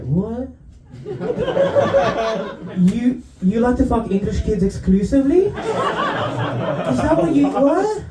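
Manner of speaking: high, appalled woman, laughing; horrified lady. Retold or imitated. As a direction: shriek it out, slowly, in disbelief. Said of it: "she was like".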